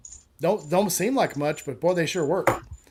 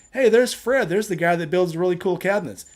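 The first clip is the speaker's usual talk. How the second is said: loud, higher mock greeting; mock cheerful hail; 3 semitones higher, 5 dB louder than usual. Joke teller voicing a passer-by, loud mock hail. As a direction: call out Fred's name like a fan. Imagined passer-by hailing Fred.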